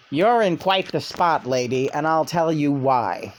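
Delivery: lightly voiced David Lynch, amused; a hint of David Lynch with a laugh. Channeled David Lynch teasing the lady, lightly voiced. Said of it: "here to speak on that is none other than David Lynch".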